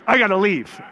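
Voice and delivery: high, loud comic bail-out; joking retold excuse. Preacher imitates buddy backing out of praying, comic excuse. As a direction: imitate the buddy's escape, amused. Buddy bails, amid laughter.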